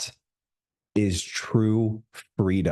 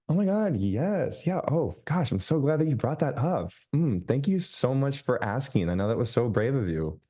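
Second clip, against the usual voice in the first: much higher, gushing fake-friendly voice; mock customer service voice; 5 semitones higher than usual. Coach mocking a client-pleasing reply, in a high gushing voice. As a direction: overdo the eager people-pleaser. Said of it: "Who has a customer service voice".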